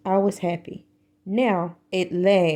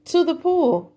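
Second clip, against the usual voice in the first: mild yell; 8 semitones higher than usual. Acted. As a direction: call out where to go. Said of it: "yelled the fireman".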